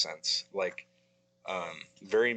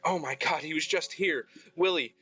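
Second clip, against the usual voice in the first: high, shocked priestess voice; distraught priestess; 8 semitones higher than usual. Acted. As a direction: cry out in dismay at a friend's body. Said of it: "and she's like".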